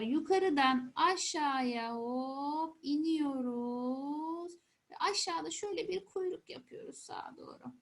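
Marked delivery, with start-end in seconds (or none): 0.0-4.5 slow writing demo. Shown as a demonstration. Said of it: "shows how to write the letter".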